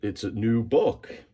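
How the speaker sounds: It's a new book, said as a proud claim with a rising end; mock boast. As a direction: pretend to show off the book as new. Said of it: "and say".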